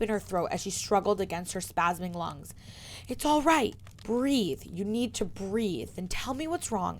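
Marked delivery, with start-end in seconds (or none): 3.1-7.0 reassuring. Acted. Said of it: "Hermione promised".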